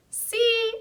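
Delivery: pleased man. A narrator's reading. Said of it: "he said with a smile".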